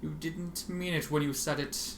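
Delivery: plain reading voice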